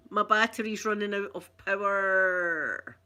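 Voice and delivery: slow, drawn out like a dying battery; mock powering-down voice; winding down. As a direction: stretch the last word as power fades.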